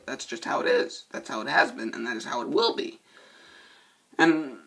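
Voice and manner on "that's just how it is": high-pitched repeat. Shown as a demonstration. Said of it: "repeated line".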